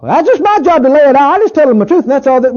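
hammed-up preachy mimicry; mock self-righteous. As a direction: parody the cold truth-teller. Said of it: "Takes more than just truth".

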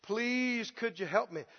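soft, low, monotonous plea; mock beggar's quiet refrain; repeated begging. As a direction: beg meekly, over and over. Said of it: "To ask over and over again".

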